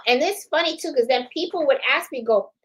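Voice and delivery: ordinary talk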